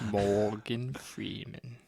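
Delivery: slow, lightly voiced Morgan Freeman; a slow, half-hearted try at Morgan Freeman's voice; Morgan Freeman impression. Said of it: "Is that your impression?".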